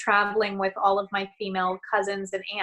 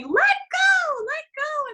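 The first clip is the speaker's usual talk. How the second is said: high imitated scream of alarm; 5 dB louder, much slower than usual. Aunt to niece hanging from a pulley, imitated scream. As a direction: mimic a screamed urging from the sidelines. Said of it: "my aunt screaming".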